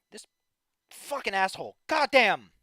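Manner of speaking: loud, frustrated swearing; angry cursing. Real, not acted. Streamer cursing the absent friend, angry. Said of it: "I get to be angry".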